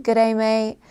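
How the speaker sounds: lightly imitated Australian greeting; casual Aussie accent. Shown as a demonstration. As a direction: say it with Australian vowels. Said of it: "for their accent".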